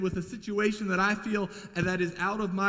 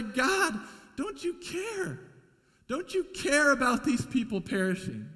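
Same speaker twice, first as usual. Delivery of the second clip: pleading cry to God, voice rising high; desperate plea; 6 semitones higher than usual. Retold or imitated. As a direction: beg God as if in fear. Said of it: "We say".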